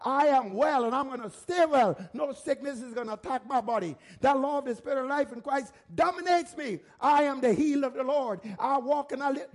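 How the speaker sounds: firm declaration of faith; with authority. Shown as a demonstration. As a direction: declare it boldly, punching the key words. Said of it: "talk with authority".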